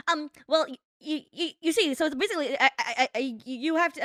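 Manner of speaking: mock sped-up stammering pundit; Ben Shapiro. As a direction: trip over repeated words, imitating a rushed debater. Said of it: "his fucking two X speed voice".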